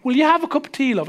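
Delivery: light mock Irish brogue offering tea; a quick, playful Irish robot voice; a hint of an Irish housekeeper; Irish accent. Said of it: "speak with an Irish accent".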